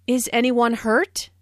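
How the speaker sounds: anxious "Is anyone hurt?" rising at the end; worried question. Shown as a demonstration. Teacher demonstrates the worried rising question. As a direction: ask "Is anyone hurt?" with worry, pitch up at the end. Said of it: "asked in a worried way".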